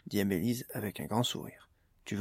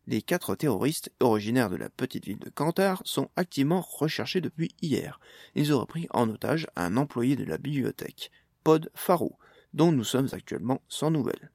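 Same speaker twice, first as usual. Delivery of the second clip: lightly voiced TV news anchor; news read; 3 semitones higher than usual. TV anchor reporting the attack to viewers, light news read. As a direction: read it like a mild evening news bulletin.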